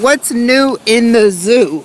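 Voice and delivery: repeated slowly. Real, not acted. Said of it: "My hearing is off".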